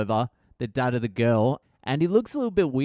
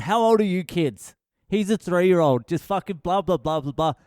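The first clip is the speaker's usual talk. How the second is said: higher-pitched mock telling-off, running into blahs; mock yelling; 4 semitones higher than usual. Mum tells off the kids at play, mock yelling. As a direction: imitate an angry mum going off. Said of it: "she just starts yelling at my kid".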